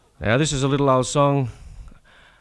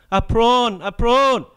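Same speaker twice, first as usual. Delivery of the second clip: much higher, louder excited cry; cried out; 13 semitones higher, 4 dB louder, much slower than usual. Acted. Sonia spotting the enemy at dawn, excited high cry. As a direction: sing out the alarm. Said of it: "Sonia cried".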